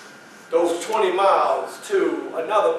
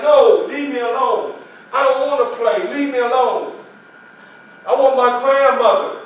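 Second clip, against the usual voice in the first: higher, louder sulky refusal; boy refusing to play, higher and louder; stubborn child; 5 semitones higher, 4 dB louder than usual. Retold or imitated. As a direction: push them away, childish.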